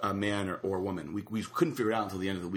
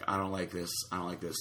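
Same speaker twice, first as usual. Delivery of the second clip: low retold worry, dropping softer; uneasy aside; 3 semitones lower, 5 dB quieter than usual. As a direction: repeat it quietly, as a private warning. Retold uneasy friend in texts.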